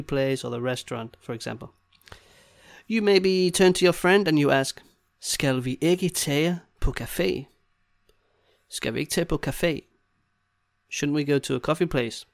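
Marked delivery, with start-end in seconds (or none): 5.2-7.4 slow, careful phrasing; slow demonstration. Shown as a demonstration. Teacher modelling a question to a friend, slowly. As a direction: take it slowly for the learner.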